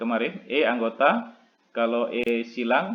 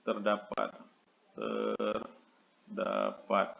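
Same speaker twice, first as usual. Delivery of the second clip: slow dictation; 4 semitones lower, 11 dB quieter, much slower than usual. Shown as a demonstration. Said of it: "teacher repeats word while writing".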